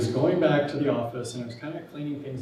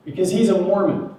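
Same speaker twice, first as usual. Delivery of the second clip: laughing; 7 semitones higher, 8 dB louder than usual. Retold or imitated. Boss retelling his defense, laughing.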